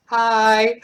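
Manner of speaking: high, loud, drawn-out hello; excited greeting. Real, not acted. Host greeting a poet who watches the channel, excited. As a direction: sing out a big, long hi.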